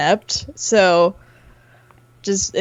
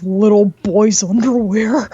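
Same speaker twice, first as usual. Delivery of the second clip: a hint of a creepy low voice, louder; creepy deep voice; 5 dB louder than usual. Telling her cohost the voice in her head, lightly creepy. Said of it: "this really deep pedophile voice".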